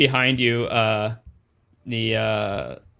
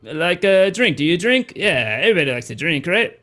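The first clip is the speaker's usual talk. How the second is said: put-on higher, coaxing Weequay doorman accent; 5 semitones higher than usual. Doorman offering newcomer a drink, Weequay accent. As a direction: coax her in a Weequay accent. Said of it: "this is how all Weequay sound".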